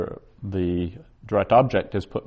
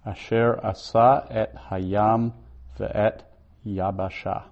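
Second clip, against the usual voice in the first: Hebrew verse reading. Shown as a demonstration. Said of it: "Okay, verse nine".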